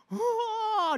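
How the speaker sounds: high, far mock wail of a crying wife; imitated wail. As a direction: let out the wife's wail as a brief impression. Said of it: "dia nangis keras banget nangisnya".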